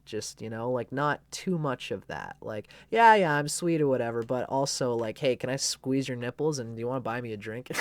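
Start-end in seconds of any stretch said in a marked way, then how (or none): 2.9-7.7 playful flirt, a bit loud; cheeky flirt. Retold or imitated. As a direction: toss it off with a cheeky come-on. Goat voiced, flirty Gemini side.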